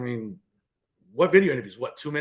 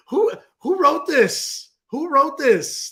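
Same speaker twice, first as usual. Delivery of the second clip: incredulous; 9 semitones higher, 5 dB louder, much slower than usual. Real, not acted. Mocking a rival's mission statement.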